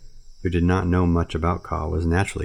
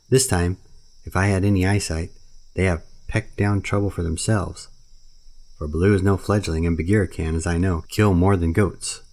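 lightly voiced old bird, amused; a knowing bird chuckling at the monkeys; kite Ron; 2 semitones higher than usual. Ron the kite muttering to himself in the sky, lightly amused.

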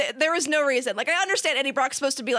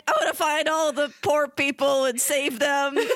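mock New Yorker. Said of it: "trying to be, I guess, a New Yorker".

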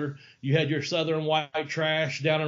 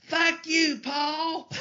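high, strained put-on heckle from the crowd; imitating Vader yelling from the back; mock Vader voice; 12 semitones higher, much slower than usual. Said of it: "his Big Vader voice".

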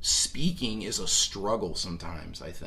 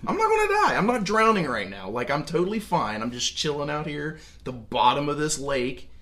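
amazed immortal; 3 semitones higher than usual. Retold or imitated. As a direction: gush like a man who just found he can't drown. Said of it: "like, wow, I can't die".

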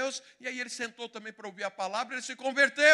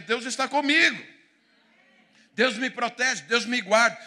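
louder proclamation, God is with me; loud declaration of faith; 2 semitones higher, 9 dB louder than usual. Acted. A believer declares God's protection, loud and fervent. Preacher voicing confident faith.

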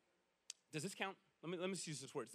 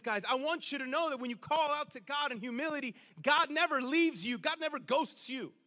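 normal talking voice

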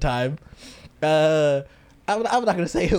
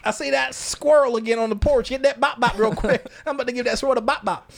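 put-on Southern accent; 6 semitones higher than usual. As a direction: play a Southerner after a squirrel. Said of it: "it does sound very Southern too".

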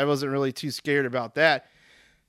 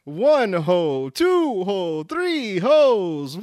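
Chappelle voice; 5 semitones higher, 5 dB louder, much slower than usual. Retold or imitated. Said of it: "Chappelle show or something when he's like".

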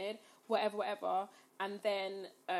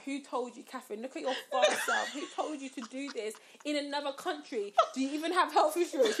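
self-scolding; 3 semitones higher than usual. Retold or imitated. Scolding herself in her head.

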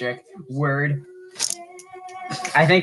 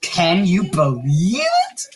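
high, slow amazed whisper to shout. Acted. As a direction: gasp it out in wonder. Reading a review, hammed up.

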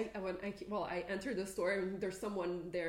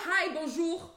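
mock shopkeeper greeting; 8 semitones higher, 7 dB louder, slower than usual. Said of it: "they switched to a".

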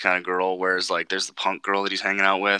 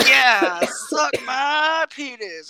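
very high, slow taunt, the yeah louder; bratty kid; 5 dB louder, much slower than usual. Retold or imitated. Imitating the kid repeating his taunt, high slow child taunt. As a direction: sing it out like a cheeky little kid. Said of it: "And he's like".

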